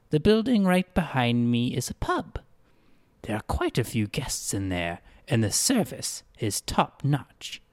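lightly voiced greeter, gently reassuring; calm her down like a smooth host; soothing greeter. Greeter reassures the frightened girl, mildly soothing.

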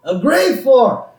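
high, drawn-out villain punchline; Mister Burns. Retold or imitated. Boss finishing his cruel tease, high drawn-out villain voice. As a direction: land it as a hammed-up evil boss.

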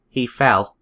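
flat deadpan; monotone. Retold or imitated. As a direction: say it with no urgency at all. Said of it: "most monotone voice".

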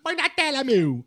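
light newsman catchphrase; Datena impression. Imitating the TV anchor for the podcast. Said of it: "como é que seria o Datena".

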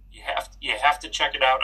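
real voice crack mid-sentence. Real, not acted. Host urging listeners to check out the group, voice cracking. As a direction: let the voice crack while urging them. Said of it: "I don't know why my voice is cracking".

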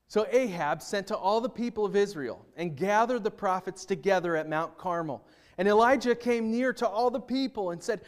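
dramatic Bible reading to a congregation; scripture reading. Acted. Pastor reading First Kings aloud to the church, dramatic. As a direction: read the story with feeling, voicing the prophets.

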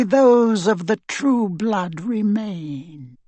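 high, slow, silky villain; cold dark lord. Acted. Voldemort promises a purge.

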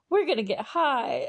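high, loud character imitation; Mallory. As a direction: have another go at a gleeful troublemaker voice. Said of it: "I can't do the Mallory voice".

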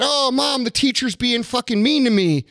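a kid whining to his mom, mildly played; whiny kid to mom. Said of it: "you said".

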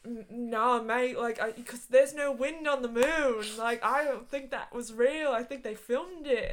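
loud, hammed-up Australian; horrible Australian accent. Australian guy doubting the moon landing, bad loud Australian accent. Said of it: "do a horrible Australian accent".

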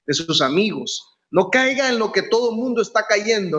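rising, pleading sermon cadence; fervent preaching. Acted. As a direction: drive each "no caiga" home to the congregation. Preacher's anaphora, raised pitch.

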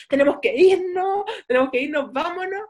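rushed friar bolting off; panicky friar. Retold or imitated. Friar tells Julieta they must go, lightly panicked. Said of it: "sino que dice".

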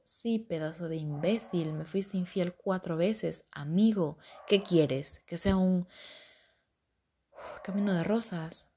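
exasperated, emphatic telling-off; retold indignant retort. Retelling her retort to the cheating boyfriend, exasperated and indignant.

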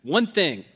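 dramatic punch on ONE; emphatic. Retold or imitated. Preacher restating Paul's single aim, emphatic stress on ONE. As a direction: punch "one" as a firm declaration. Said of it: "very dramatic and very emphatic. He's saying".

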